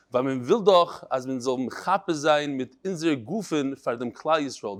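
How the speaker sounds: put-on Litvish Yiddish reading accent. Rabbi reading a martyr's last words to class, Litvish Yiddish. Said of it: "in the Litvish Yiddish".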